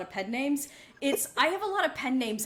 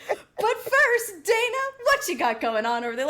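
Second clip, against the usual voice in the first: bright, punchy newscaster delivery; news anchor voice; 8 semitones higher, 3 dB louder than usual. Retold or imitated. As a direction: announce it like a TV anchor. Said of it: "I went my full news anchor voice".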